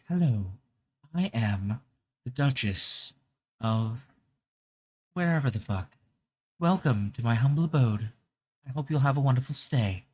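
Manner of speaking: lightly British duchess accent; a mild posh British grande dame welcome; understated British duchess accent; British older woman. Shown as a demonstration. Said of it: "my British, older woman voice".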